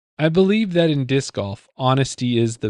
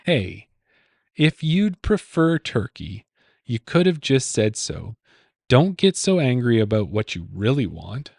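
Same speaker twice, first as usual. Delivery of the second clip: repeated clue reading. Shown as a demonstration. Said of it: "Say, say that question again?".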